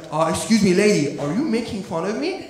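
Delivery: put-on offended server with a Persian accent; Persian waiter accent. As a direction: challenge her in a Persian accent. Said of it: "The guy will be like".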